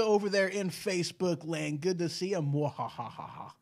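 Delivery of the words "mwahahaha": slow evil mwahahaha; mad scientist laugh. Retold or imitated. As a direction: cackle like a villain. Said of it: "that's what she, her comment".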